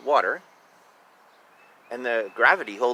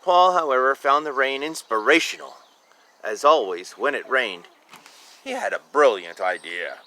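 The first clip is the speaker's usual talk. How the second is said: lively read-aloud storytelling; story narration; 3 dB louder than usual. A narrator's reading. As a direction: read it to a child. Reading picture book aloud.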